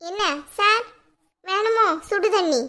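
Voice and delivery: slow, teasing sarcasm; sarcastic mockery. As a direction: drag it out to mock him. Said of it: "என்னடி நக்கலா?". (கணவனை நக்கலாக, மெதுவாக கிண்டல் செய்யும் குரல்)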